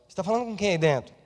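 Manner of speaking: fast quizzical knock; pastor wife's question. Retold or imitated. Pastor's wife calling through the bathroom door. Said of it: "e ela".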